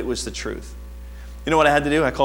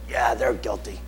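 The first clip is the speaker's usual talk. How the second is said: low, soft put-on gossip voice; lightly voiced tattler passing judgment; sly accuser; 5 semitones lower, 5 dB quieter than usual. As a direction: drop low for a mock accusation. Voices a gossip honoring the devil.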